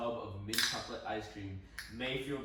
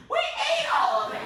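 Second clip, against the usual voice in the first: high squeaky sister confession; 13 dB louder than usual. Retold or imitated. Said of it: "My sister's like".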